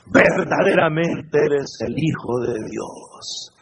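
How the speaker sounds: slow, hushed acclamation; reverent declaration. Acted. Preacher as disciples prostrate before Jesus, slow reverent declaration. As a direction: draw it out in awe.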